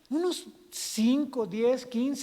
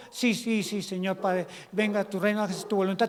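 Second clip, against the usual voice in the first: prayer monologue. Acted. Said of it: "tenemos un monólogo".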